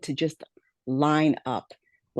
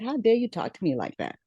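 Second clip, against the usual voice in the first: higher-pitched, mildly indignant comeback; imagined angry retort, pitched up; mock indignation; 7 semitones higher than usual. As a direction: act out an affronted reply without raising the volume. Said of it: "risen up and gotten angry".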